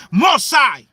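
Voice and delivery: a pleading mother's plea to God; Rachel pleading with God. Acted. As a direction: cry out to God for your children, half-shouting. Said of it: "what your mother Rachel said to the Most High".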